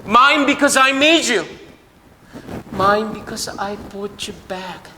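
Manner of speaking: proclaim, then let the last line fall to a hush; fading proclamation. Acted. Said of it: "지금도 저와 여러분에게 말씀하십니다".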